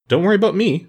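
high-pitched cheery reassurance; lifted, easy-going smiling voice; pleasant, smiling. A narrator's reading. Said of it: "smiling pleasantly upon the crab ferryman".

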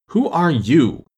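scornful, loud and high; contemptuous. A narrator's reading. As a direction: sneer down at her. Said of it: "said the caterpillar contemptuously".

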